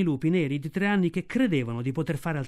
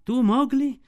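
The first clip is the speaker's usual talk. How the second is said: higher, louder, slow proclamation; proud naming; 8 semitones higher, 5 dB louder, slower than usual. A narrator's reading. Mother Wolf names the man-cub, slow loud high proclamation. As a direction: crown the cub with his name.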